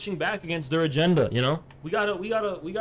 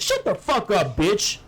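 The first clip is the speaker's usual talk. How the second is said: mock yell; 4 semitones higher, 4 dB louder, slower than usual. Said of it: "He'd be like, Hey".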